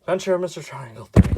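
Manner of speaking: breathless, rushing the title; out of breath. Real, not acted. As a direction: read it short of breath. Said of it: "I'm already out of breath".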